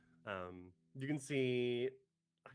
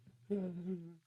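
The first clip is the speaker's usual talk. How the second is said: acted sigh; 5 semitones higher than usual. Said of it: "then he's just like".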